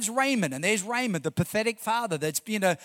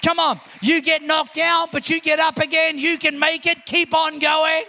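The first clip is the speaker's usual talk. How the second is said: louder, rousing words of heaven; full-force pulpit encouragement; fervent preaching; 4 semitones higher, 5 dB louder than usual. Acted. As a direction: pump the crowd up. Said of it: "The voice of heaven speaks".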